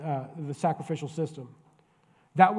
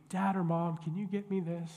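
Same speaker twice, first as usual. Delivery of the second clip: put-on sweet-talking kid; 2 semitones higher than usual. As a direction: lay on the sweetness to get what you want. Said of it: "they act really sweet".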